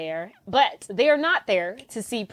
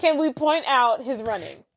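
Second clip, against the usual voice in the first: clear, firm repeat of the question; clearer repeat. Real, not acted. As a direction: say it again, spelled out for a listener who missed it. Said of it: "Can I what?".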